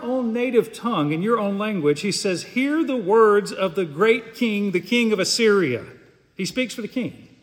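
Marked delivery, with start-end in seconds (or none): 2.4-5.9 a measured call to the crowd; large proclaiming voice. Acted. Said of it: "called out in a large voice".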